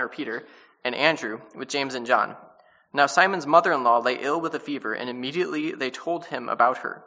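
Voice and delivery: steady, measured reading of the passage; scripture reading. Acted. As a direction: read the verses clearly to the class. Reads the scripture passage aloud.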